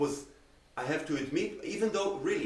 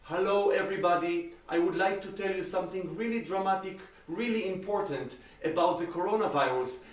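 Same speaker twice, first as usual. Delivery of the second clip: monotone speech; 3 semitones higher, 3 dB louder than usual. Shown as a demonstration. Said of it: "you start talking like this".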